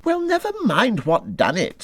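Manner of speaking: high, hurting complaint; in pain. A narrator's reading. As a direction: say it through the sting of a hurt leg. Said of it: "forgetting his grammar in his pain".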